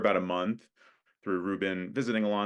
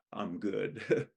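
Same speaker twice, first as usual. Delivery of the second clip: put-on drunk; 4 dB quieter than usual. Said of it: "Ruben sways, maybe an ominous hiccup".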